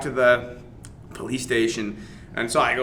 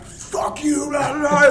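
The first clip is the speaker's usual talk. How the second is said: much higher imitation of the cursing drunk; mock angry swearing; 14 semitones higher, 3 dB louder, slower than usual. Arrested attacker swearing at the cops, high mock anger. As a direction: spit it out like the furious other guy. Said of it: "Other dude is like".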